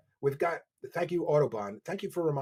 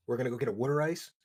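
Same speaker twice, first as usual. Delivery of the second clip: Philly accent; 2 semitones lower, faster than usual. Shown as a demonstration. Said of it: "when Philly people say".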